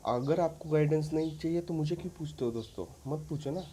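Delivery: why ask me then, in exasperation; exasperated scolding. Real, not acted. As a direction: tell them off for ignoring your advice. Annoyed at followers ignoring advice.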